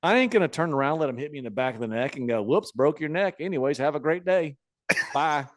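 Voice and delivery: lightly voiced veteran, cocky; Honky Tonk Man. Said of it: "He's like".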